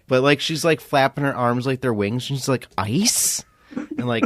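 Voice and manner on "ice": mimicking a baffled girl; puzzled, steeply rising question; confused question. Girl at the rave asked for ice, confused. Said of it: "a very terrified look on her face and so confused".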